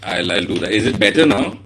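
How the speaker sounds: hoarse, crackly voice on the mic; hoarse voice breaking up. Real, not acted. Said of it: "A bit of a hoarse".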